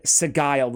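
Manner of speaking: "Sigile" as suh-GUY-ld; mistaken pronunciation. Retold or imitated. Host owning up to his mistake, Sigile as suh-GUY-ld. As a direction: say "Sigile" with hard g, rhyming with mild. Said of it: "like a real idiot".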